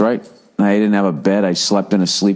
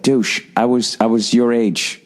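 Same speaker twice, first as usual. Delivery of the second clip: sneering mock rant at a smug kid; imagined rant at kid; 5 semitones higher than usual. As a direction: talk down to the kid, then go high and thin. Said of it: "it's just like".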